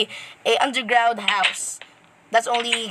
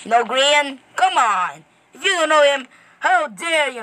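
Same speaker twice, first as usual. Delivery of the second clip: higher and louder, playfully indignant; mock outrage; 4 semitones higher, 3 dB louder than usual. Kid vlogger mock-scolds viewers who don't know Grian. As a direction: fake offense over a favorite YouTuber.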